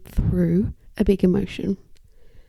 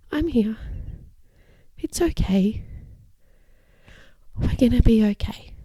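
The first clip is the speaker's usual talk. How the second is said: calm reassurance. Shown as a demonstration. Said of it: "you can hear those pauses".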